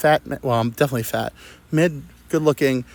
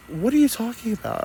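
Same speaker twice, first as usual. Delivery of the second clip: imitating driver; 10 semitones higher than usual. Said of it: "she goes".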